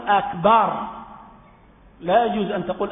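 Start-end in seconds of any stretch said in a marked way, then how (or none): 0.1-0.7 أكبر with open a, akbar; the mistaken akbar; wrong vowel. Shown as a demonstration. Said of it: "ولا تقول".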